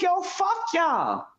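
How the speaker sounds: high, heated outburst near tears; retold angry outburst. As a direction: lash out at them all. Retold blow-up at in-laws.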